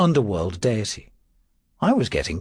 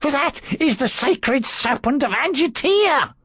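high, slow, indignant priest; urgent priest voice; 14 semitones higher than usual. A narrator's reading. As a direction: plead for the holy snake. Pompedius pleads for the snake.

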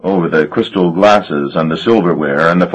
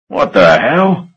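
slow, drawn-out roar, pitched up; 5 semitones higher, slower than usual. A narrator's reading. Marsh at the vampire table, seeing the infant, slow roar. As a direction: bellow it out in slow shock. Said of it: "Marsh roared".

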